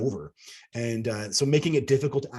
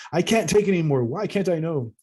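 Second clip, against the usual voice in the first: raw emotion; 6 semitones higher, 4 dB louder than usual. Retold or imitated. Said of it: "I blurted out with a raw emotions".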